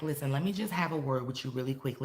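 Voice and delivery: mildly softened, polite request; not aggressive. Shown as a demonstration. Teacher showing how you come in with peace phrases, non-aggressive. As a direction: ask for a word without pressure. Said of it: "energy that's not aggressive".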